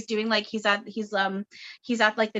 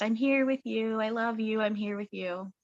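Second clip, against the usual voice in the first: softly, fading quieter to the end; tender, soothing repetition; gentle, loving reassurance; 2 semitones higher, 3 dB quieter than usual. Retold or imitated. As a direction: comfort them like a loving friend. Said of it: "very, very gentle".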